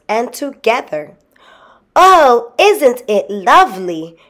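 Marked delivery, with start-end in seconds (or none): 2.0-4.2 high, loud burst of delight; delighted cry. A narrator's reading. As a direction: exclaim it with boyish wonder. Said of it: "cried William".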